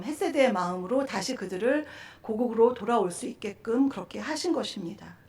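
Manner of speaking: ordinary talk, nothing marked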